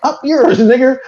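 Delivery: sweet as pie, then the sting; mock polite sheriff. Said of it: "He's like".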